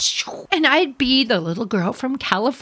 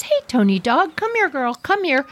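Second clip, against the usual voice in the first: calm coaxing; 6 semitones higher than usual. Retold or imitated. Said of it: "like in a real calm voice".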